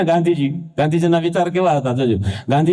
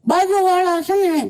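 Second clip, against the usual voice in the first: put-on much higher, whiny little boy; child's voice; 12 semitones higher, slower than usual. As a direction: call out to mom like a small kid. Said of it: "એક છોકરો એની મમ્મીને". (મમ્મીને બોલાવતો નાનો છોકરો, ઊંચા અવાજે)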